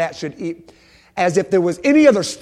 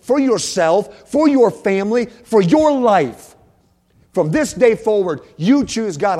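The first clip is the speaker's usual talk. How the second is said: slow, raised preaching voice; forceful exhortation; 7 semitones higher, 7 dB louder than usual. Real, not acted. Preacher urging church to choose God, forceful exhortation. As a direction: drive each phrase home, high and strong.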